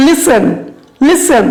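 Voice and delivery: "listen" hit on the first syllable; stress on listen. Shown as a demonstration. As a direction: model "listen" as a separate stressed word. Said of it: "কোথায় stress দিব?".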